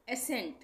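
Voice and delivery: एसेंट with only an S sound, ending in T; silent C. Shown as a demonstration. Teacher showing learners the silent C, एसेंट with plain S. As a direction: say एसेंट as "a-sent". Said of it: "सी का उच्चारण नहीं हो रहा है".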